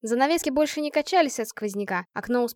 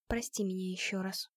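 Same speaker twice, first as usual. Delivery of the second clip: barely audible, much softer; almost inaudible whisper; 3 semitones lower, 12 dB quieter than usual. A narrator's reading. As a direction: breathe it out, almost silent. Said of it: "почти неслышно прошептала она".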